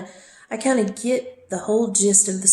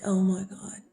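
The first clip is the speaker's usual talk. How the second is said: whispered gasp at bad news; shocked whisper; 4 dB quieter than usual. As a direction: breathe it out, stunned. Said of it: "And I'm like".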